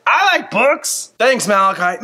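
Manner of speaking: high, eager puppet pal butting in; a kid-like puppet begging to share; squeaky puppet voice. Acted. Puppet interrupting Malachi, high and eager.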